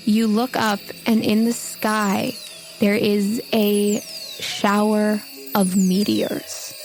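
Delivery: ordinary talk, nothing marked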